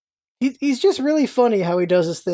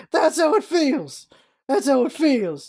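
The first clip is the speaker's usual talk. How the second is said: smug Loki; 5 semitones higher, slower than usual. Retold or imitated. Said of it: "And Loki's like".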